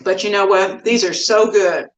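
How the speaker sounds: words round a bite of muffin; mouth full. Real, not acted. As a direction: still chewing while talking. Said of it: "I'm talking with my mouth full".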